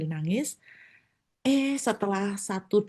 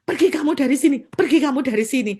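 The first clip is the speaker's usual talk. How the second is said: louder, higher command; a bold preacher drives out the spirit; commanding rebuke; 5 semitones higher, 5 dB louder, faster than usual. Retold or imitated. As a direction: order the spirit out boldly. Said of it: "langsung saya bilang begini".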